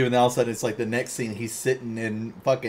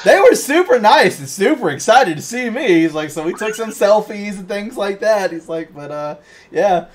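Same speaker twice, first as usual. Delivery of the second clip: much higher and louder, an excited DeVito; Danny DeVito impression; 11 semitones higher, 11 dB louder than usual.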